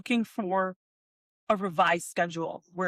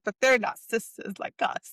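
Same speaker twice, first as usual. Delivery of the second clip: a hint of the stylist's voice; mimicking the stylist. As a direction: put on her chummy tone lightly. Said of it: "be like".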